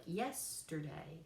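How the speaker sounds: YESterday, slow, with weight on the first syllable; dactylic stress. Shown as a demonstration. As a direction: stretch and lean on YES in "yesterday". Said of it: "stress on the first one".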